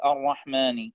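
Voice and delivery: الرحمن said entirely through the nose; nasal whole word. Shown as a demonstration. Teacher demonstrating nasalizing the whole word الرحمن. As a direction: push all of الرحمن into the nose. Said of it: "يصبح النطق الكلمة كله من الأنف".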